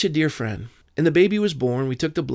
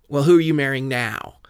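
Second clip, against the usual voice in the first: exasperated mom; 5 dB louder than usual. Retold or imitated. Mother voiced, exasperated.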